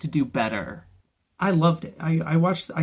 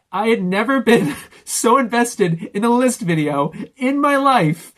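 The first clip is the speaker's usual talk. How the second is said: loud, high, overwhelmed gushing; worked up; 5 semitones higher, 6 dB louder than usual. Real, not acted. Viewer recalling the countdown, real worked-up excitement. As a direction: build louder and higher, nearly losing it. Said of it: "I lost my shit. I am almost crying now".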